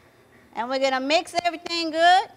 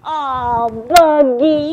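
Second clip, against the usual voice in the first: touched cry of name; 10 dB louder, much slower than usual. Real, not acted. Touched by godson's love.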